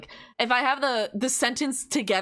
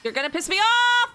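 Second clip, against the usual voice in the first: louder, higher irritated yell; half-joking angry shout; mock annoyed; 10 semitones higher, 5 dB louder than usual. Real, not acted. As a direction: snap at the enemy. Annoyed at enemy.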